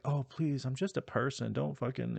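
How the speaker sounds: put-on pleading humility; mock modesty. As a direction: imitate someone waving off praise. Mocking the heroine's false modesty.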